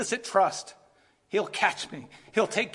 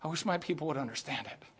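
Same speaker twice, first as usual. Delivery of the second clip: voice of Jesus; 4 semitones higher, 3 dB louder than usual. Retold or imitated. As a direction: start hushed and build to an impassioned cry. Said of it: "what Jesus is saying is".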